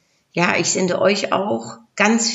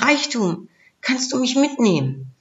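higher, lightly voiced storybook plea; pleading Love; 7 semitones higher than usual. A narrator's reading. Love asks Wealth for rescue, mild pleading. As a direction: ask hopefully for a place aboard, pitched up. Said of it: "Da fragte ihn die Liebe".

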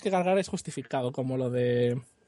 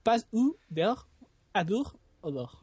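mock French. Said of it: "os lo digo entero".

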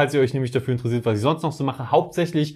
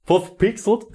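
American accent on Voll verpixelt, rising; american accent in german; 6 semitones higher than usual. Shown as a demonstration. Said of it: "du kannst es besser".

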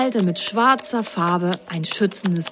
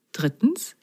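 soft whispered count; whispering; 5 dB quieter than usual. Acted. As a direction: whisper the number mysteriously. Whispered in quiz.

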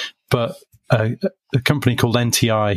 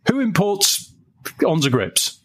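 higher, blunt question with no greeting; abrupt caller; 8 semitones higher than usual. Retold or imitated. Brant phoning without introducing himself, blunt and higher. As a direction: fire the question without saying hello. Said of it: "And he goes".

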